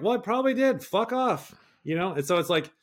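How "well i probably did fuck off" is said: much higher, louder angry snap; high loud mock fury; mock raging reply. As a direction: snap back in mock rage. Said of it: "I'm like".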